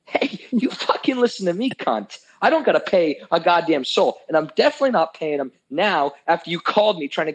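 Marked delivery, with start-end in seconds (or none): 0.1-4.2 retold angry outburst. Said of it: "have you ever seen me that mad".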